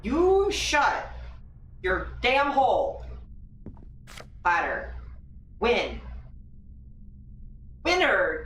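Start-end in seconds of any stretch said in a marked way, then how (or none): 0.0-3.1 angry snap. Real, not acted. Yelling at game character.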